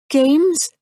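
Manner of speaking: bewildered, throw the word back; puzzled echo. A narrator's reading.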